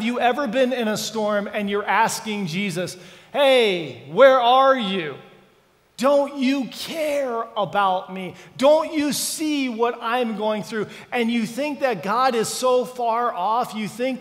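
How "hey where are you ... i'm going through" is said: loud, slow, pained calling out; anguished plea. Retold or imitated. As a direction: cry out to a God who seems far away. Believer pleads with absent Jesus.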